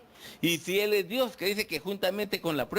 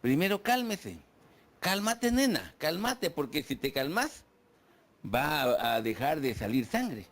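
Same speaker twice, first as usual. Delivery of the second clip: calming voice; 5 semitones lower than usual. Retold or imitated. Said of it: "una señora muy sabia le dijo".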